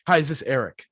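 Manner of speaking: Hi, is this Eric? with the pitch falling at the end, not rising; downward inflection. Shown as a demonstration. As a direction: ask it like a statement, voice dropping on Eric. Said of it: "Downward inflection".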